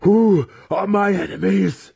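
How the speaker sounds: high, loud, desperate shouting; screamed demand. A narrator's reading. Wizard begging the vanishing spirit for names, screaming. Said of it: "he screamed".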